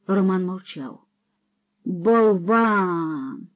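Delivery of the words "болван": slow, loud scolding bellow; thundering rebuke. Acted. Patrokol thunders at the silent Roman, slow furious scolding. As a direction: thunder the insults at the dumb lad. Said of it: "гримнув Патрокол".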